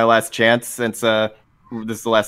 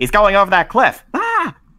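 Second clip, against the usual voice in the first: mock pinched-nose villain voice, higher pitch; 10 semitones higher, 3 dB louder than usual. Imitating villains in old japanese cartoons: imitating cartoon villains talking with held nose. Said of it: "they're holding their nose".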